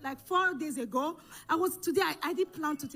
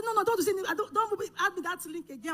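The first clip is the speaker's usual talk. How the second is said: higher-pitched, retold angry refusal; angry protest; 5 semitones higher, faster than usual. Daughter refusing her mother's encouragement, angry protest. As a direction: push the words away, worked up. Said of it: "I was just angry with God".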